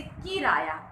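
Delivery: किराया with the कि hit hard, the rest let go; stress on first syllable. Shown as a demonstration. Teacher demonstrating word stress to pupils, stressed first syllable. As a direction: punch कि, then stretch out राया slowly. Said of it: "किराया में क पर बल दिया".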